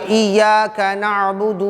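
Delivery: slow, lingering recited Arabic; Quranic recitation. Shown as a demonstration. Teacher reciting the next verse for students, slow chanted recitation. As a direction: chant the words slowly.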